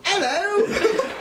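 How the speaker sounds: very high squeaky little creature greeting; gooplings voice. Retold or imitated. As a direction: chirp it like a tiny blob. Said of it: "little ones just saying this over and over".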